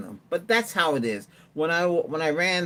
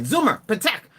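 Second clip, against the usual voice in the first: commanding the robot dog; 8 semitones higher, 6 dB louder than usual. Retold or imitated. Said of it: "I say".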